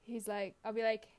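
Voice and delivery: ordinary delivery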